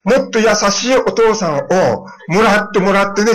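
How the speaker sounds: put-on can't help laughing as you quote the child; retelling a child's cheeky advice while chuckling; laughing while quoting.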